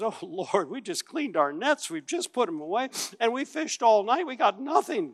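rising, weary protest from a tired fisherman; a hint of Peter whining that the nets are clean; mild complaint. Peter protesting to Jesus after a night of fishing, mildly whiny.

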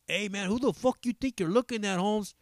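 put-on high, confrontational cholo accent; Chicano cholo accent. Comedian imitating a cholo challenging a stranger, Chicano accent. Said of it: "then there's the Chicano".

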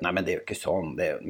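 mild, polite objection, trailing off; acting out a tentative, courteous protest. Sufferer politely objects to the nagging visitor, mild protest. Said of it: "Du begynner høflig og sier".

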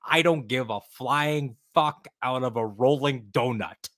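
slow, deliberate quote; quoting Friedkin. Retold or imitated. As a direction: drawl out the famous quote. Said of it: "to quote the great William Friedkin".

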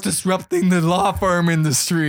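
confident startup pitch. Pretend. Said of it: "like, young kids".

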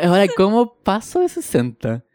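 asking through laughter; laughing question. Real, not acted. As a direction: laugh at the absurd problem. Laughing at own dilemma.

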